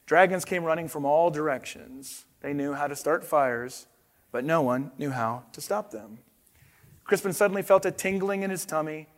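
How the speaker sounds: put-on reading a picture book to kids; storyteller voice for a children's book; story narration. A narrator's reading. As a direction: read it like bedtime story time. Reads picture book aloud.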